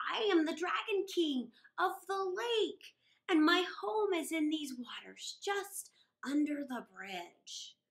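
a lightly voiced stately dragon lord; Dragon King. Dragon King introduces himself.

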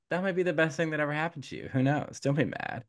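fast, breezy hen wife. Retold or imitated. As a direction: rattle it off to brush off worry. Hen wife comforting Trembling.

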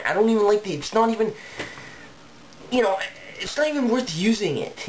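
high-pitched frustrated griping; fed up, pitch climbing high; exasperated complaint. Real, not acted. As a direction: whine upward in exasperation. Frustrated rant about the layout.

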